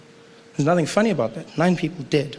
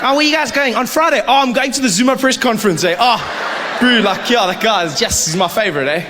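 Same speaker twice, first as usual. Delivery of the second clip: excited fan; 7 semitones higher, 3 dB louder than usual. Retold or imitated. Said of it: "you'll be like".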